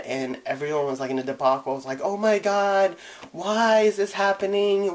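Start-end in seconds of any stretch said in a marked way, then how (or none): 2.0-5.0 panicked. Retold or imitated. Panicking amid family fight.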